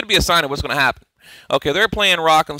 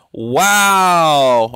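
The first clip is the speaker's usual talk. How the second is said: surprised wow; 6 dB louder than usual. Real, not acted. Reacts to a headline.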